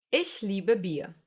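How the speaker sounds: "Ich liebe Bier" slowly, long ie; slow example sentence. Shown as a demonstration. Teacher models a slow example sentence. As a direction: stretch the ie sounds slowly. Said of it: "A few more examples".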